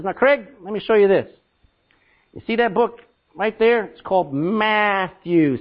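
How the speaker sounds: a hint of a patient mentor spelling out the obvious; walk him through it like he's a child, slowly; slow talking-down explanation. Mentor Jack shows the new convert his Bible, mock slow and patient. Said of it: "He didn't talk that way".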